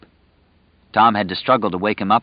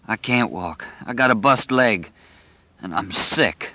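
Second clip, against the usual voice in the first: sulky sickroom voice. Acted. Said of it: "Stu's voice became sulky, petulant. It was a sick room voice".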